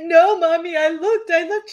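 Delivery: put-on high, loud upset child; little-girl voice. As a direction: protest like a guilty five-year-old.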